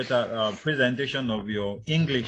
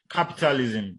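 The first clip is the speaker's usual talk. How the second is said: capitalism with CAP punched; stress on first syllable. Shown as a demonstration. Teacher showing first-syllable stress, capitalism stressed on CAP. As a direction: hit CAP at the start of capitalism. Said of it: "on the first syllable".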